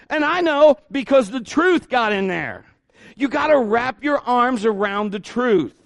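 high, loud, driving sermon voice; preaching at full force. Acted. Pastor firing up the congregation, full-force preaching. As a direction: preach it out to the church.

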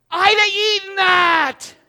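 high, loud, slow hammed-up cry; a mock-tragic howl for a thrown-out sandwich; mock wail. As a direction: wail in fake grief over a lost burger. Lament over the burger thrown out.

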